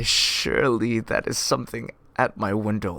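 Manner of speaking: loud, insistent declamation; loud declaiming. A narrator's reading. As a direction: declare it loudly to reassure yourself. Speaker startled by louder tapping.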